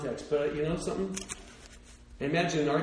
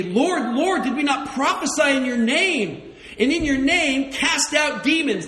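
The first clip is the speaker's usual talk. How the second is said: rising, louder scripture reading; preaching scripture; 4 semitones higher, 4 dB louder than usual. Acted. Pastor to congregation, reading scripture louder and higher. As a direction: build the quote to a high, loud plea.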